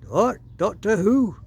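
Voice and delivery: loud, high mock shout of confusion; deaf man's shout. Deaf postmaster shouting back at the whispering girl. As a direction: bellow it like you can't hear a thing.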